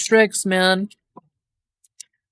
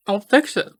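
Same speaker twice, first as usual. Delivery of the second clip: usual speaking voice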